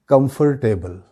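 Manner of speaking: "کمفرٹیبل" as kum-fur-table; common mispronunciation. Shown as a demonstration. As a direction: sound the "fur" fully in "کمفرٹیبل". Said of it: "کیا کہتے ہیں ہم لوگ؟". ("کمفرٹیبل" میں "فر" کی پوری آواز)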